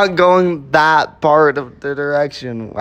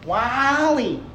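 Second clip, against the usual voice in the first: WALL-E robot voice; 10 semitones higher, 5 dB quieter than usual. Acted. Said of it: "I got a voice impression".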